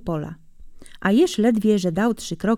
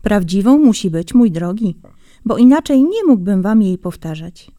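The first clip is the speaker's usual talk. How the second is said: grandad insisting, a bit louder; earnest grandfather; 6 dB louder than usual. Acted. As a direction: swear it's true like an old grandfather. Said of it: "jeżeli coś opowiadał z przejęciem". (z przejęciem, jak dziadek)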